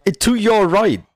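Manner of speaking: loud, high, exasperated; frustrated shout. Real, not acted. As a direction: shout it again, fed up. Repeats direction, shouting.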